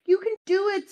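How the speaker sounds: pitched high, encouraging; Robin cheering. Retold or imitated. Robin cheering the dragon on, high and encouraging. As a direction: cheer it on like proud, teary Robin. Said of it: "says Robin".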